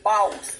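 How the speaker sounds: "boss" said low and drawn out, from the soul; soulful "boss". Shown as a demonstration. Coaching how to say "boss", soulful and deferential. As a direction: say "boss" from your soul, not as spelled. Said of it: "Say it from your soul".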